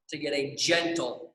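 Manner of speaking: gentle leaned on, with a pause after it; stress on gentle. Shown as a demonstration. Coach stressing a careful pull, emphasizing "gentle". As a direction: give "gentle" a slight lean, then hold a beat. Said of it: "I wanna emphasize the word gentle".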